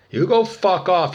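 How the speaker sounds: loud, high burst of real anger; furious curse. Real, not acted. Cursing out the one percenters, furious. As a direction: hurl it at them, voice leaping up.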